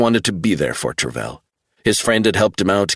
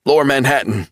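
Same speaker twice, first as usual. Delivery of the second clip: much higher, urgent pleading; desperate insistence; 7 semitones higher, faster than usual. A narrator's reading. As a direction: make him believe you. Travell voice.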